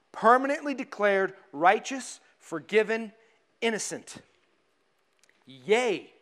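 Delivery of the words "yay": low, underplayed cheer; a cheer that stays low in pitch; subdued yay. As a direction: give a half-hearted little yay. First, subdued cheer to congregation.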